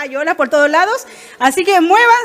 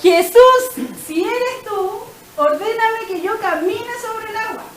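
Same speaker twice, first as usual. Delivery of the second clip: retold Peter; 4 semitones higher, slower than usual. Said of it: "Y le dice".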